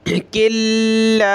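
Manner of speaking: किल्ला with the न dropped into a doubled ल्ल; tajweed idgham demo; merged kaf-lam. Shown as a demonstration. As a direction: join क into ल्ला. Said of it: "काफ को हमने लाम के साथ प्लस करना है".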